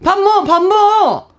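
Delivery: brusque, loud Gangwon dialect call to eat; punchy Gangwon dialect mock yell. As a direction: shout it like a Gangwon mom calling her kid to eat. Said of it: "이런 좀 소리가 그냥".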